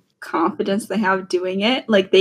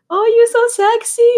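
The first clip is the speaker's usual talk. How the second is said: mock Filipino auntie; 14 semitones higher, 4 dB louder than usual. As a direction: coo it like an auntie. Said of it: "were just like".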